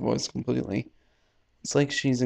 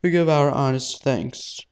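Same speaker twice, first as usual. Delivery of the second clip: formal announcer; 3 semitones higher, 5 dB louder than usual. Acted. Host opening the press conference, formal and loud. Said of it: "Dim microphone voice".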